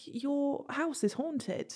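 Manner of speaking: high, soft and very slow; timid confession. Retold or imitated. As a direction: imitate breaking awkward news gingerly. Hesitant confession to owner, retold.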